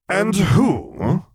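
loud, high outraged bellow; indignant senator bellowing. A narrator's reading. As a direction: bellow it at the admiral. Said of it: "Falia bellowed".

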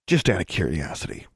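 understated, mildly curious question. A narrator's reading. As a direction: ask it with studied mildness. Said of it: "he asked mildly".

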